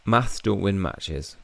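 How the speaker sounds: slow, deliberate character line; slow, dismissive character voice; slow retort. Acted. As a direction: drag each word out firmly.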